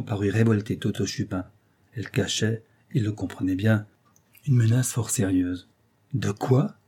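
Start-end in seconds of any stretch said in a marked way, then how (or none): 6.1-6.7 restrained angry question, rising at the end; a first touch of indignant anger; angry challenge. Acted. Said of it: "fit-il, rouge de colère".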